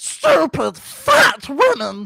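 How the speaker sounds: shrill, very high, loud, swooping creature screech. Commentating a fight, the speaker asks what Gollum thinks, then answers in Gollum voice. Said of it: "What do you think about this fight, Gollum?".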